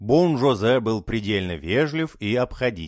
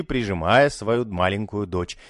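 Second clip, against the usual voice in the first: plain reading voice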